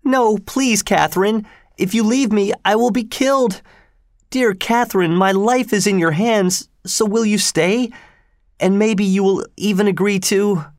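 put-on very high, panicky boy voice; frightened, high-pitched begging; terrified pleading. A narrator's reading. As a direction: beg for your life in a high-pitched wail. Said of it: "rolled around in pure terror".

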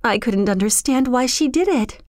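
put-on high, stammering, tearful girl; upset girl's voice, breaking off and restarting; starting to cry. A narrator's reading. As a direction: stumble over words through acted tears. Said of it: "Kismeen began to cry".

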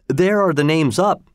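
a mild excited cry; cried out. Acted. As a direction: point out the names with excitement. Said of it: "I cried".

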